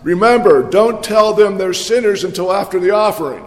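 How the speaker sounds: parting reminder called out with a grin; yelled out. Retold or imitated. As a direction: call it out the door as he leaves. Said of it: "she yelled out".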